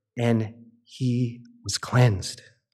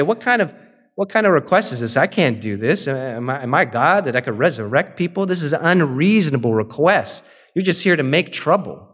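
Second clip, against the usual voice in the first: a pitched-up, exasperated cry of disbelief; alarmed outburst. Retold or imitated. King of Israel rips his clothes at the request, exasperated outburst. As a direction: play the panicked king, hands thrown up.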